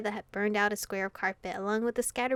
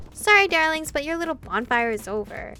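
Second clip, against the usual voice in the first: sing-song coo; 4 semitones higher, 6 dB louder than usual. Acted. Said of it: "A sing-song voice cooed".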